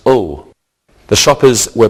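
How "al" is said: "ul" with a muted vowel and final L; suffix pronunciation. Shown as a demonstration. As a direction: say "ul" as an unstressed word ending.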